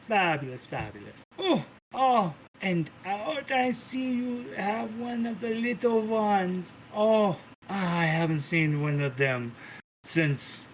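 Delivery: a hint of a delighted diva cooing; theatrical matriarch, softening to sweet; lightly voiced gushing Mother. Mother gushing, then spotting puppy.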